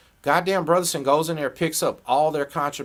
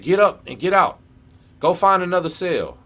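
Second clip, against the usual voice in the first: mock yell; 5 semitones higher, 6 dB louder than usual. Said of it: "Man, I said".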